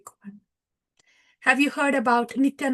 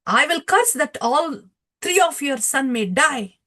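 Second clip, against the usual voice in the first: retold angry curse, higher and louder; raised voice, pronouncing a mock curse; 4 semitones higher, 5 dB louder than usual. Nityananda Ram curses the devotee after kicking him, angry. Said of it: "Nityananda Ram was angry".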